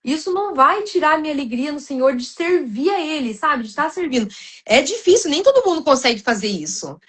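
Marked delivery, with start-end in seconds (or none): 0.0-4.3 high, earnest declaration of faith; insisting joy in the Lord remains; lightly raised sincere conviction; firm declaration. Retold or imitated. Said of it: "Eu falei".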